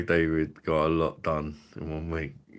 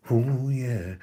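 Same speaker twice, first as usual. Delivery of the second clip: crooned mock ad-lib, higher pitched; imitating a singer; 4 semitones higher than usual. Mocking a singer's habit in every song, crooned imitation. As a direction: imitate a pop singer's "oh yeah". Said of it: "You don't have to go".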